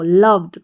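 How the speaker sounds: लव्ड said slowly with a clear final d; teacher models लव्ड with a d ending. Shown as a demonstration. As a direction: give लव्ड a crisp d at the end. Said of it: "ड इसका sound आ रहा है".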